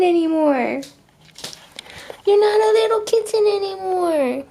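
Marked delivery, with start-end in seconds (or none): 2.2-4.4 teary mom. Real, not acted. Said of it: "I'm crying as mom here".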